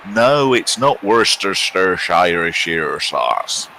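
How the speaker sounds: slow mock-tearful plea; mock crying. Marketing team laments slowly in a mock tearful voice. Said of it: "marketing team must be crying".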